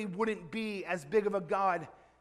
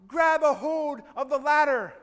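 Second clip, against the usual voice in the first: higher, louder yell from above; 5 semitones higher, 7 dB louder than usual. Acted. Helicopter crew yelling down to the man, urgent shout. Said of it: "the guy yells down".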